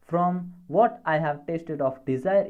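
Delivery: reading a verse line very slowly; slow recitation of a poem line. Shown as a demonstration. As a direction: read the line out word by word for the class. Teacher reads poem line aloud.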